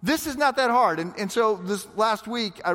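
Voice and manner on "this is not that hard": high, slow, easy-going; lightly voiced calm counsel; drawn out and unbothered; breezy advice. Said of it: "but he says".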